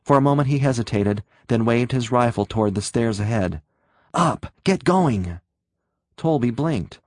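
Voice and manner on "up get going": barked order. Acted. Soldier orders prisoner upstairs.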